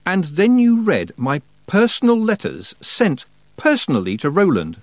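high, loud outrage; girl angrily scolding over her privacy; indignant accusation. A narrator's reading. Tiffany angrily accuses Rob.

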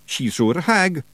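high Scottish wee man, flatly certain; matter-of-fact Feegle. A narrator's reading. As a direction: state it like obvious fact. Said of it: "said Rob matter-of-factly".

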